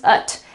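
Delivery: short "ut" sound; schwa and T. Shown as a demonstration. Teacher sums up the noun rule, short "ut". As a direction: say "ut" with a neutral vowel. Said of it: "change the pronunciation completely".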